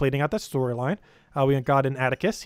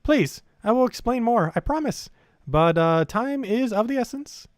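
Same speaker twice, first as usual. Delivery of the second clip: urgent game character; 8 semitones higher, 3 dB louder, slower than usual. Acted. Voices game character's dialogue.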